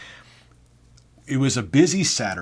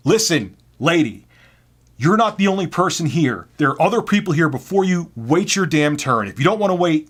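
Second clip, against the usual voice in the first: loud, raised-pitch retort, retold; exasperated telling-off; 7 semitones higher, 5 dB louder than usual. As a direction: lay down the law to a pushy customer. Retold losing cool with customer.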